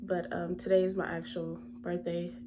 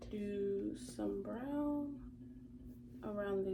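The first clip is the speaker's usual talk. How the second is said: whisper; 9 dB quieter, slower than usual. Real, not acted. Whispered instruction while applying.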